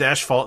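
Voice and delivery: "asphalt" pronounced ash-fault; own odd pronunciation. Shown as a demonstration. Speaker using the teased word in a sentence, odd pronunciation. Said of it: "I say asphalt".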